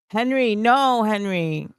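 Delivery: high, drawn-out plea easing down; touched protest. Real, not acted. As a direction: protest fondly at a friend's kindness. Overwhelmed, protesting Henry's kindness.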